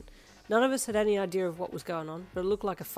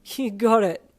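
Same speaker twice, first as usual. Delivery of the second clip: emotional shout; 4 semitones higher, 12 dB louder, slower than usual. A narrator's reading. Kuro tearful shout.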